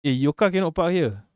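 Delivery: heavy Malaysian English accent. Shown as a demonstration. Warning a driver the car cannot park here, Malaysian English accent. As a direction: put on everyday Malaysian English. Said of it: "That sounds like English with a heavy accent".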